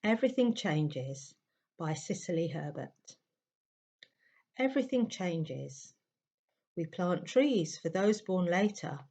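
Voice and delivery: measured, deliberate recital of a poem; poetry read aloud, unhurried pauses between lines. Real, not acted. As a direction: read the verse aloud with space after each line. I'm gonna start by reading a poem.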